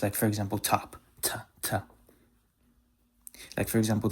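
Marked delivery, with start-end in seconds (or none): 0.6-1.8 light English t starting top and ta. Shown as a demonstration. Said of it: "like the T in English".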